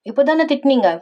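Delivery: a touch of pouting complaint; mild sulk. Acted. Wife to husband who just scolded her, mild sulk.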